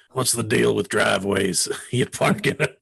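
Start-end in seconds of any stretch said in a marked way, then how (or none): 0.1-1.7 Alex Jones as Seinfeld. Shown as a demonstration. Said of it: "Jerry Seinfeld as Alex Jones".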